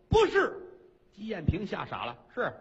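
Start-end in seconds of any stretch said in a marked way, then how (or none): 0.1-0.5 blurted no, much higher and louder; squeaky denial. Acted. Red Silk blurts a denial to the queen, squeaky.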